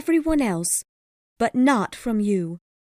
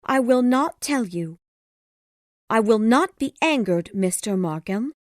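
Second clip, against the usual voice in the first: high, loud, indignant refusal; crying out; 6 dB louder than usual. A narrator's reading. Woman refuses Markham an explanation, crying out high. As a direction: cry out your refusal, high in pitch. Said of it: "she cried".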